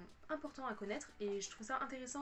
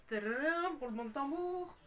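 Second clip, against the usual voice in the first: loud, higher-pitched ta-da; mock drum-roll fanfare; 4 semitones higher, 5 dB louder than usual. Vlogger unveiling the book to viewers, playful fanfare.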